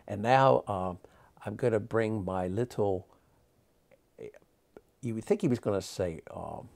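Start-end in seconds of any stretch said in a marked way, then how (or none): 0.1-3.1 a hint of a showman's announcement; lightly voiced stage patter; imitating the magician. Nephew imitating old magician's stage intro, lightly. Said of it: "I'm trying to talk like him".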